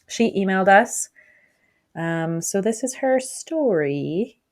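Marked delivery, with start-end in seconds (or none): 2.0-4.4 rattly chesty voice; slow, phlegm in the throat; phlegmy voice. Real, not acted. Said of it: "Sorry, I'm phlegmy still".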